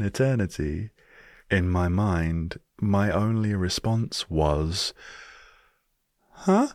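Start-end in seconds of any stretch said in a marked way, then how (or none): 6.3-6.7 sharp, much higher startled huh; confused huh. Retold or imitated. British guest baffled by the question, startled huh. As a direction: blurt it out, baffled.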